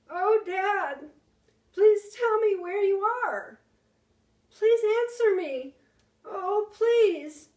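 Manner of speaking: high loud desperate plea on the edge of tears; a lost boy pleading into the silence; trembly voice. Acted. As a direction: beg him to answer, voice breaking. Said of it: "my voice began to go all trembly".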